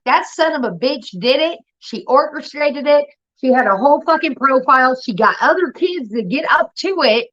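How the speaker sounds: a stepmom who knows exactly what happened; accusing stepmom. Retold or imitated.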